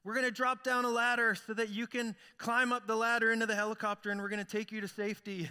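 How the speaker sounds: a mild mock yell, pitched high, through a megaphone; mock megaphone call. Rescuers in the helicopter call down to the man, mild mock megaphone yell. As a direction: hail the man from above like a rescue crew. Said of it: "he hears yelling through a megaphone".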